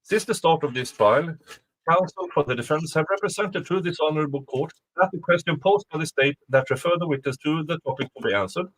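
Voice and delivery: reading a court motion aloud, brisk; quick formal legal read. Shown as a demonstration. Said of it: "I will just use my normal voice".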